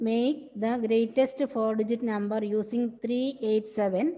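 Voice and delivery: very slow, word by word dictation; teacher dictating a math question to the class. Shown as a demonstration. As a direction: read it out slowly for students to copy.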